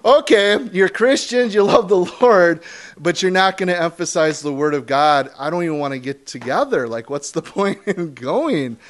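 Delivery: high, loud mock disbelief; incredulous outburst; exasperated retort. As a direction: act out being fed up with them. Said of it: "I'm just like".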